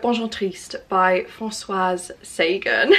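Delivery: slow, careful go at French names; attempted French accent. Real, not acted. Vlogger retries a French title and author, attempted French accent. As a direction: say it slowly with an imperfect French accent. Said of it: "My French accent is not French accenting".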